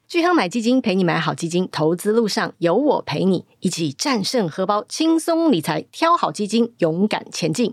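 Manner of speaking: upbeat ad read. Acted. Sponsor ad read.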